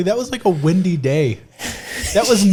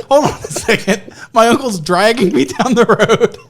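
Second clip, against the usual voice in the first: laughing into the phone; 4 semitones higher, 4 dB louder than usual. Retold or imitated. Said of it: "I'm like".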